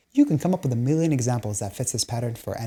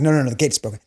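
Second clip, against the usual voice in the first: mock insistent dad; faster than usual. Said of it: "to my dad, it's like".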